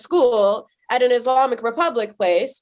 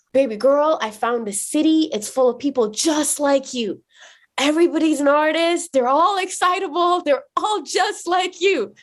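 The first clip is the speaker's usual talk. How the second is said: excited dad; 5 semitones higher than usual. Retold or imitated. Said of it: "he was like".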